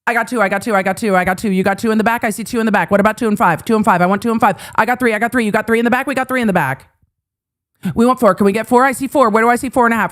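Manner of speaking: lightly voiced auction caller patter; mock auctioneer. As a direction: rattle off bids like an auctioneer. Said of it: "are we horse trading?".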